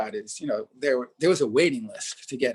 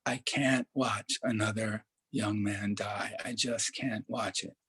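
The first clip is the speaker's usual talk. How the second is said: quiet, slow, tearful voice, a retold cry rather than full sobbing; 5 dB quieter, slower than usual. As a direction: hold back tears softly and slowly. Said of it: "and she was crying".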